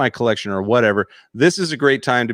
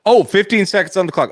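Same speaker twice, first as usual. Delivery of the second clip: surprised; 6 semitones higher, 4 dB louder than usual. Real, not acted. Guest reacts to time challenge.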